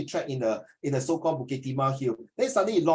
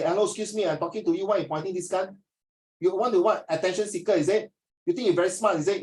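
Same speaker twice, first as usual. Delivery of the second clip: mock scolding teacher, only a hint; stern teacher imitation; 2 semitones higher than usual. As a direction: lightly play an annoyed strict teacher. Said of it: "some teachers will talk like that".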